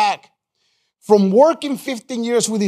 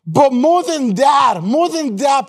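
slow, higher, building to a shout; rising preacher shout; 4 semitones higher than usual. Real, not acted. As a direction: lift the congregation, hammer the more.

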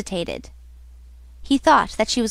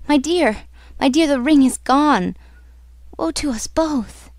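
higher, distressed lament; despairing; 4 semitones higher than usual. Acted. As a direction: announce the loss with dread, sinking by the end. Heroine despairs over lost ring.

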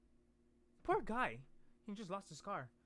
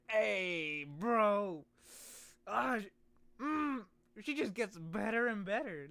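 excited swooning; 3 semitones higher, 4 dB louder, slower than usual. Real, not acted. Swooning over character.

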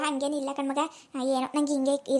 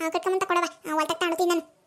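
scolding mother-in-law; 2 semitones higher, faster than usual. Acted. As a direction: scold the late son like a fed-up village mother-in-law. Mother-in-law gives orders.

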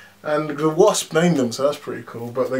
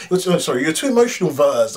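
mocking Yon-Rogg; 3 dB louder than usual. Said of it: "Yon-Rogg or Jude Law kept saying".

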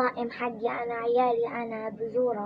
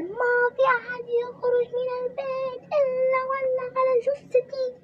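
high, loud tearful wail; crying mother-in-law; 12 semitones higher, 3 dB louder than usual. Acted. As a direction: plead over her dead body, wailing. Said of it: "خلاص تصرخ وتبكي وتقول". (الحماة تصرخ وتبكي بصوت عالٍ)

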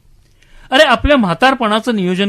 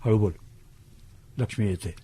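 shush, then drop to a very soft murmur; low, secretive warning; urgent hushing; 9 semitones lower, 13 dB quieter than usual. Acted. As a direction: keep it down, someone is coming. Hushing friend as Lakshmi approaches.

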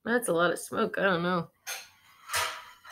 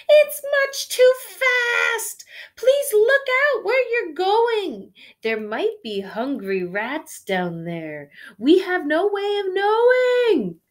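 much higher, much louder frightened shriek; shrieking in fear; 12 semitones higher, 9 dB louder than usual. Acted. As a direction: shriek it, terrified of the speed. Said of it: "Poor Holly shrieked".

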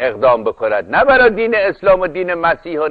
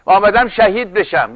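quick, higher-pitched comeback, lightly acted; retold defiant protest, pitch raised; defiant accused man; 6 semitones higher than usual. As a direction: imitate a would-be martyr insisting.

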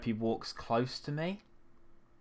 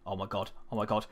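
usual speaking voice

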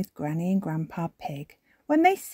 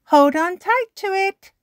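higher, caring shop voice; lightly voiced Miss Rabbit; 8 dB louder than usual. A narrator's reading. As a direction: warn the little one kindly. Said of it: "Miss Rabbit says".

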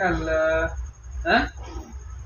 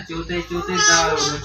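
"दार" called out louder, knocking-at-the-door call; 5 dB louder than usual. Shown as a demonstration. Crow calling sparrow to open the door, louder. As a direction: call "चिवताई, चिवताई, दार उघड" loudly through the door. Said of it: "असं नाही म्हणत".

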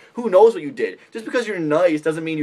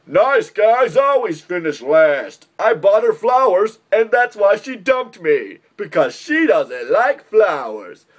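mock whiny nice guy; 4 semitones higher, 4 dB louder, slower than usual.

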